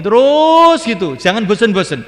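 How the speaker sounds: rally them not to tire; rousing exhortation. Real, not acted. Preacher urging listeners to keep going, loud and high.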